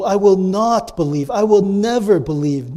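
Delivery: firm refusal leaning on "not" and "never"; stress on the negation. Shown as a demonstration. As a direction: hit "not" and "never" hard. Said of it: "The emphasis here is on the no".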